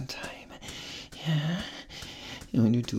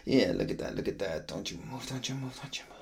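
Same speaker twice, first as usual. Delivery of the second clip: fading murmur; 2 semitones lower, 5 dB quieter than usual. Real, not acted.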